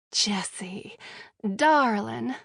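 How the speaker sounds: dripping with sarcasm, the name whispered; mock sweetness, every word sarcastic. Captive answers the redhead, dripping with sarcasm. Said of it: "I respond with sarcasm dripping".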